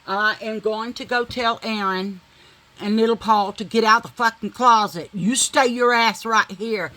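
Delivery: a burst of loud retold command; loud firm retold order to stay put; retold angry order. To her man about the kids, a loud hard command.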